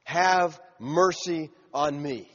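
slow, deliberate reading of a plea; understated, unhurried cry for mercy; measured quoted plea. Retold or imitated. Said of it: "And so he cried out".

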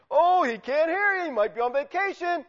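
high-pitched mocking taunt; Elijah. Elijah mocking Baal's screaming prophets, high and taunting. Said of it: "He's mocking them".

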